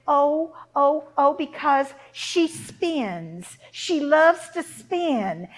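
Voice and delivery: loud, drawn-out false explanation; stall, then boast slowly; flustered cover-up. Acted. Mother covering up before the queen, loud stretched-out excuse.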